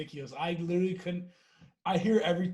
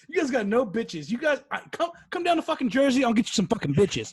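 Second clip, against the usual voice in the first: put-on bragging hyped kid; 5 semitones higher, 4 dB louder than usual. Kid bragging about Jersey.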